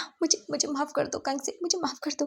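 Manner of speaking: mild weepy plea for forgiveness; lightly voiced father begging through tears; crying father. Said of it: "फिर से रोते हैं".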